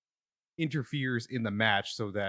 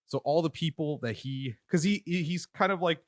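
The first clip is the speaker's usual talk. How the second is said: breathless after push-ups; panting a little between words; out of breath; 6 semitones higher than usual. Real, not acted. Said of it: "I'm out of breath 'cause I just did push-ups".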